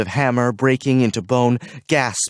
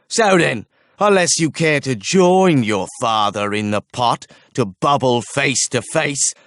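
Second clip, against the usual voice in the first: mocking chief archer; 3 semitones higher than usual. A narrator's reading. Archer mocks the smith over the pot, sneering. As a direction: savour the cruelty.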